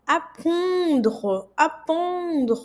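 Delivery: apprendre with a bright open a; slow model word for students; French pronunciation demo. Shown as a demonstration. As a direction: stress the a in apprendre. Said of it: "E o A tem esse som normal".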